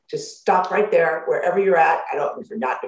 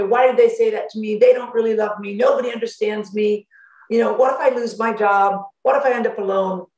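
anxious spiral; 4 semitones higher, 3 dB louder than usual. Retold or imitated. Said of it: "and you go".

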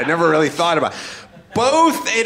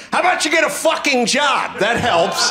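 angry outburst, raised voice; angry shout; 5 semitones higher than usual. Real, not acted. Ranting host yells at welfare advocates, angry. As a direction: bark it out in disgust.

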